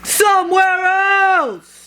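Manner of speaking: exasperated. Acted. Elephant wants birds gone.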